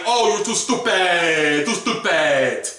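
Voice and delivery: slow mocking scold; scolding himself. Looking back at himself, a slow mocking scold. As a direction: drag it out, scolding yourself for a dumb mistake. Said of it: "I'm like".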